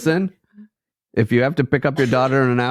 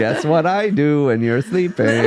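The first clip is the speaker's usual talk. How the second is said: creepy voice; 4 semitones higher, slower than usual. Pretend. Mocking the creepy sleeper.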